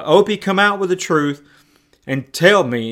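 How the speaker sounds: lightly acted insistent father; stern fatherly demand. Father pressing his son to confess, sternly insistent.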